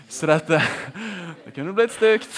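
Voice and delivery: real laugh breaking through the words; giggling that it could turn ugly. Real, not acted. Laughing at his own joke.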